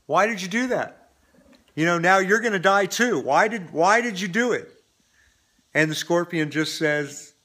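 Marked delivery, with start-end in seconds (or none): 0.1-4.7 mildly pleading, higher-pitched protest; lightly voiced dismayed frog. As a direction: lightly act out a betrayed frog asking why. Dying frog's last words to scorpion.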